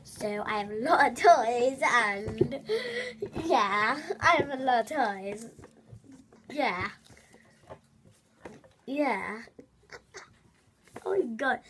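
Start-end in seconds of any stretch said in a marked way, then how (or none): 0.0-9.4 lightly put-on vlogger voice; slow, drawn-out chat about toys; a light impression of a toy-loving YouTuber; Nudorella. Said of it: "that's what she sounds like though".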